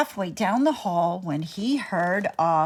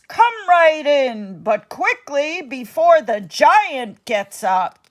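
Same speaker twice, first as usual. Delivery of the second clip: urgent giantess; 5 semitones higher, 4 dB louder than usual. Acted. Giantess urges Jack inside.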